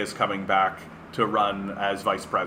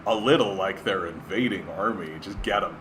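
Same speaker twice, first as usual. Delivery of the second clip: sarcastic requote of the jab; mock the writer's dig; 4 semitones lower than usual. Shown as a demonstration. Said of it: "just gotta dig on it".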